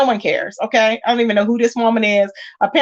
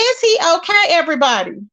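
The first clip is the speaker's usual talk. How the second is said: mock concern; 8 semitones higher than usual. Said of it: "I'm like".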